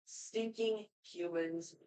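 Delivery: lightly voiced alien invader, sneering; Zim impression. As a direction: mutter like a cartoon alien villain. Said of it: "my Zim impression".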